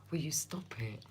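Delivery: whispered scolding aside; playful whisper. Real, not acted. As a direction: hiss it at a friend off to the side.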